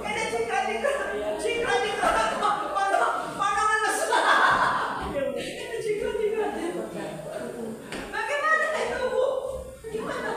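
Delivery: high, loud mocking whine; mocking the ones who dodge, high and loud; mocking excuses.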